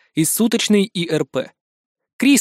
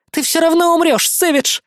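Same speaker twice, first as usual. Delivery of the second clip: villainess forcing words out, higher; strained grunt; 10 semitones higher than usual. A narrator's reading. Beaten villainess to Savage, straining. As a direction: grunt it out through pain. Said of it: "прокряхтела она".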